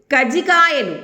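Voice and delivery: "కజ్జికాయలు" said as "కజికాయలు"; "కజ్జికాయలు" with a light single జ; single j, no doubling. Shown as a demonstration. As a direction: drop the doubling in "కజ్జికాయలు", one short జ. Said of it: "ఒకవేళ ఈ లేదనుకోండి".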